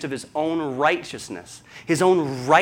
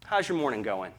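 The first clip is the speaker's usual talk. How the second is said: kind greeting; 4 dB quieter than usual. Pretend. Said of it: "opportunity to say".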